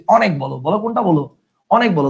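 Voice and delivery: অনেক said "aw-nek"; open ɔ vowel. Shown as a demonstration. Teacher confirms students' pronunciation, অনেক as "aw-nek". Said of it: "অ এর উচ্চারণ অ এর মতোই".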